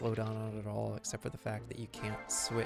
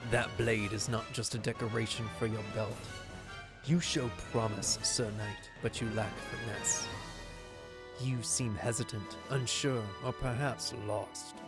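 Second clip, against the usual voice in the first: gravelly voice; 4 semitones lower than usual. Acted. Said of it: "I can't do that gravelly voice".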